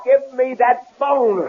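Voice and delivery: slow, high, threatening; menacing demand. Acted. Man demanding the phone, slow and menacing. Grabbing phone during struggle.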